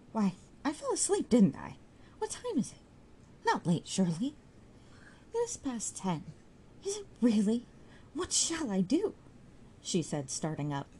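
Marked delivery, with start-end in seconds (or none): 0.1-9.1 put-on much higher, startled young woman; waking in a panic at the hour; alarmed girl. Sue wakes and is alarmed by the late hour.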